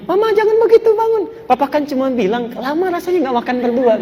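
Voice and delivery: high-pitched, tender husband; sweet reassurance. Acted. Husband lifts up his crying wife, sweetly reassuring. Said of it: "manis sekali perilakunya".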